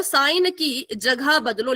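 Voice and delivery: "साइन की जगह बदलो" said slowly, word by word; slow repeated rule. Shown as a demonstration. Teacher repeats the answer slowly so students remember it. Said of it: "क्या करो?".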